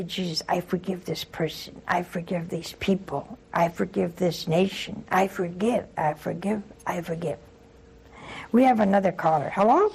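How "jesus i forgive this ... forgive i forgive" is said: prayer of forgiveness. Shown as a demonstration. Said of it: "Just say".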